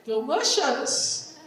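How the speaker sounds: delicious said slowly in English; delicious drawn out with an English sh. Shown as a demonstration. Teacher models the English word for Spanish speakers, slowly. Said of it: "a veces van y dicen".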